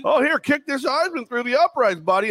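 mock Lucy teasing. Mocking cohost as Lucy with the football, high and teasing. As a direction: tease like Lucy holding the ball. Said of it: "Lucy Charlie Brown football me".

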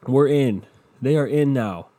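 mocking hyped fans. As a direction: ham up an overexcited fan. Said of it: "everyone was like".

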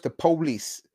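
"police" as POH-lees, stressed on the first syllable; slang pronunciation of police. Retold or imitated. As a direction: say "police" with a long POH up front. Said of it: "You gotta say it like that".

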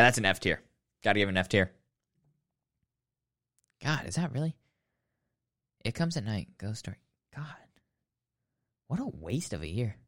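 ordinary delivery

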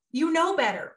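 a hint of a parent's sharp reprimand; scolding. Mother recalls scolding her son for something ridiculous, mock sharp reprimand. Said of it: "it would have been".

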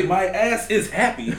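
Austin Powers. Retold or imitated. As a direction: draw it out as a comic catchphrase. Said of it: "what my nigga Austin Powers say".

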